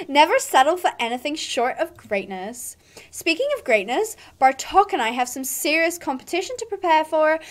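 haughty, condescending rider; mean girl. Acted. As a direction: talk down to a beginner. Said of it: "my accent is all over the place".

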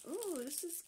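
slow, high, drawn-out admiring ooh; delighted coo. Real, not acted. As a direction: swoon over the cute card. Delighted at a new card.

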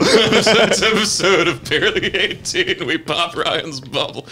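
high, laughing repeat of the intro. Acted. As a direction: giggle through the announcer line.

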